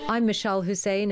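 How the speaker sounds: normal talking voice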